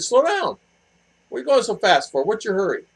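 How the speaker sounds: high, loud retold scolding; exasperated scolding. Retold scolding of the reckless van driver, high and loud. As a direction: scold the speeding driver, pitch way up. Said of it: "And I said".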